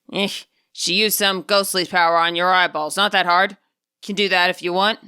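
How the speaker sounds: put-on mildly bored, dismissive old man; unimpressed. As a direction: shrug it off as no big deal. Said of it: "went out of his way to sound unimpressed".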